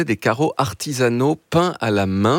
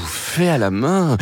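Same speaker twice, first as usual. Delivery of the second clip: impressed; slower than usual. Retold or imitated. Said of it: "Et là, on fait «Ouh".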